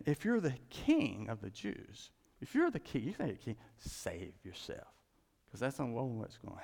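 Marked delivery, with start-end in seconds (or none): 0.1-4.9 soldiers' mockery. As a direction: jeer it, then let it sink away. Soldiers mocking Jesus.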